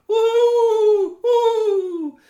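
high, loud owl hooting; owl hoots. Acted. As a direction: hoot from high above. Owls hooting high above.

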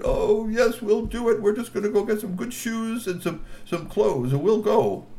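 high eager assurance; eager agreeing. Acted. Trolls assuring the guards, high eager. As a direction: promise brightly, too eager.

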